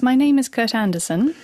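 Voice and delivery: British accent. Shown as a demonstration. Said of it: "So let's try this".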